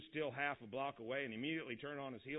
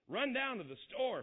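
loud, higher, exasperated outburst; thundering father; 9 semitones higher, 5 dB louder than usual. A narrator's reading. Father balks at going out in the cold, thundering loudly. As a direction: boom it out at the idea of going out. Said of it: "Father thundered".

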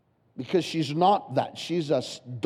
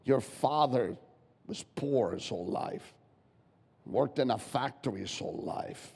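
sly devil's voice; 4 semitones lower, 6 dB quieter than usual. Acted. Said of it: "Satan will start to say".

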